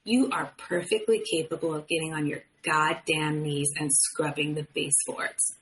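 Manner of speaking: quietly threatening, spooky and controlled; nasty calm tone. Retold or imitated. Husband telling his wife to scrub the baseboards, coldly calm. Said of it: "nasty, spooky, calm tone".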